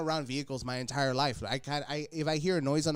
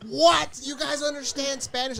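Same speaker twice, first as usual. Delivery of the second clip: mock surprise; 11 semitones higher, 5 dB louder than usual. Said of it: "I was like".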